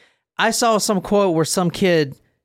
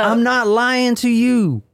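put-on drunk insistence; 6 semitones higher, slower than usual.

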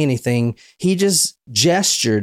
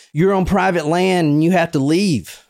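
put-on hick Southern accent; 5 semitones higher than usual. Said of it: "hick Southern accent".

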